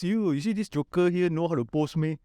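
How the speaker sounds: high, indignant board member voice; mock board member. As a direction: complain like an offended board member. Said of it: "A lot of board members".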